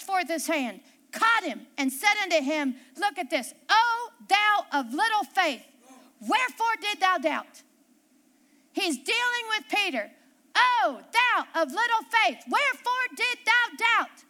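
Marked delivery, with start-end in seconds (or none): 3.7-7.6 mild reproof. Acted. Jesus reproving Peter, read out. 10.6-14.2 emphatic reproof. Acted. Repeats Jesus reproving Peter.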